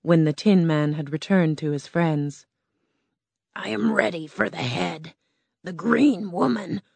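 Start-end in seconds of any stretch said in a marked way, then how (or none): 3.6-6.8 lightly voiced timid lion; a hint of a nervous big cat; cowardly lion. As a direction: play the lion, a bit unsure. Lion boasting.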